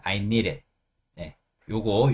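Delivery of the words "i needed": "needed" said short as "니렛", with a flapped d; natural linked needed. Shown as a demonstration. Teacher models for learners, "needed" reduced to "니렛". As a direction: run "needed" together, softening the middle d to a tap. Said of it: "그냥 needed 하시면 됩니다".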